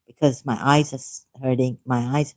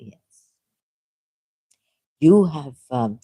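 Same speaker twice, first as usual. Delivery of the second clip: ordinary delivery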